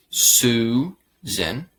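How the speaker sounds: Susan with a clear, drawn-out "oo"; U sound in Susan. Shown as a demonstration. Teacher models the blue moon sound for learners, Susan with clear "oo". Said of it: "Porque la sonido es U".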